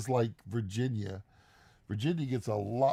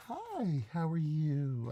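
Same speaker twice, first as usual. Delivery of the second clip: overly nice greeting; 3 semitones higher, 5 dB quieter, much slower than usual. Retold or imitated. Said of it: "she's just too nice".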